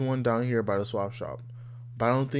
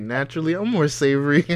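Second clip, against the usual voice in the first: mocking quote; 3 semitones higher, 5 dB louder than usual. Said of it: "that shit is hilarious".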